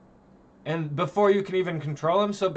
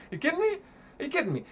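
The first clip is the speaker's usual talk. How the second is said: disbelief; 10 semitones higher, much faster than usual. Real, not acted. Disbelief at the game.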